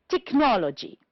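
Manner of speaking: technology with NOL stressed; stress on second syllable. Shown as a demonstration. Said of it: "two syllables before".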